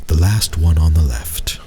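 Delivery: a host who has said his piece; grave innkeeper. Acted. Innkeeper voiced in story.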